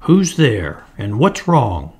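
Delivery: mildly sharp elf mother; understated sharp call. Acted. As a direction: demand it sharply. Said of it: "speaking sharply".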